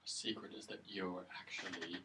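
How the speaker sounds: slow, hushed whisper; unhurried whispered suggestion; joke whisper. Pretend. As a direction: whisper it like a secret.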